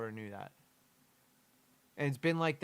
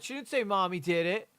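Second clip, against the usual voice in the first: much higher and louder, exasperated; indignant outburst; 5 semitones higher, 3 dB louder than usual. Real, not acted. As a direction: protest loudly at the absurd claim. Furious at the cop's claim.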